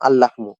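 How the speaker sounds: "আল-লাহমু" with a long doubled l; double lam. Shown as a demonstration. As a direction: hold the l between "আল" and "লাহমু". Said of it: "দুইটা লাম লিখতে হবে".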